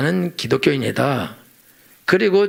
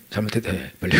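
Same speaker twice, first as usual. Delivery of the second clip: mock divine demand; 8 semitones lower, 6 dB quieter than usual. God demanding an apology in prayer.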